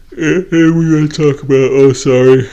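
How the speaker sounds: words stretched through a yawn. Real, not acted. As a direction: talk through a big yawn, then excuse it. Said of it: "I'm yawning".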